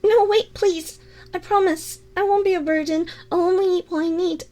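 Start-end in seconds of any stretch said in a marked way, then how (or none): 0.0-3.1 urgent plea. Acted. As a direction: stop them from leaving, urgently. Pleading as listener moves to go.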